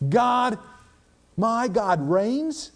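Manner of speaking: a touch of the maid's bold faith; faith-filled servant girl. Retold or imitated. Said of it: "she had a faith that says".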